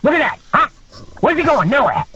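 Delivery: high, mocking trainer pointing out; imitating Mike. Trainer making the wrestlers watch the injury tape, high and mocking. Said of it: "He goes".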